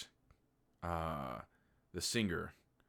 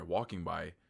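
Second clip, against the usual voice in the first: normal talking voice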